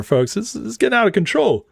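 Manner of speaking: usual speaking voice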